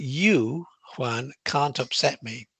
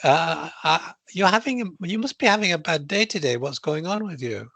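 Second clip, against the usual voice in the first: puzzled, higher-pitched opening; curious concern; 4 semitones higher than usual. Shown as a demonstration. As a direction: demonstrate gently probing curiosity. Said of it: "be curious".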